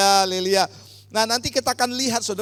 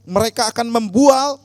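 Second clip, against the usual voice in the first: loud, forceful declamation of Bible verses; projected, emphatic reading aloud; loud scripture reading; 3 semitones higher, 8 dB louder than usual. Real, not acted. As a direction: lead the congregation reading out in a strong voice. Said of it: "dengan suara yang keras".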